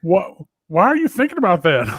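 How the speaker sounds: laughing disbelief. Retold or imitated. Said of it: "And I go".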